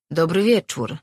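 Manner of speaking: lightly voiced sociable tavern-goer; Marin's hearty greeting. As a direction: greet an old drinking partner out loud. Marin cheerfully greets old drinking partner.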